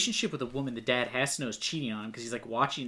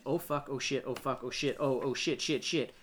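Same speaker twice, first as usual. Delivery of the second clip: awkward swearing; 5 dB quieter than usual. Retold or imitated. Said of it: "every time he swears, it is so aggressively awkward".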